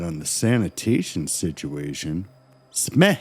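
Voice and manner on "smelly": "Smelly" stretched high and loud over extra syllables; drawn-out "Smelly". Pretend. Co-host on the sanitation, "Smelly" comically stretched out high. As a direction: sing out "Smelly" as sme-he-he-lly.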